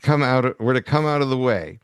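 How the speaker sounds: lightly voiced suave horror villain; Vincent Price. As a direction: try out a mild Vincent Price purr. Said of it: "Can I do Vincent Price".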